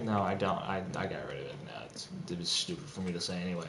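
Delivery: hushed, sheepish whisper; whispered quick backpedal; whispered denial. Retold or imitated. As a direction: whisper the denial fast as if caught out. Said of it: "And it's like".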